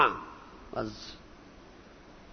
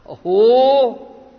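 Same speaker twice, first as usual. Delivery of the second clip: exclamation of wonder; 10 dB louder than usual. Acted. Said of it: "interjection come out".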